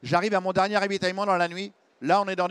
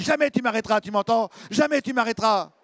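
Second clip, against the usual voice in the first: defiant yell; 4 semitones higher, 3 dB louder than usual. Retold or imitated. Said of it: "je hurle".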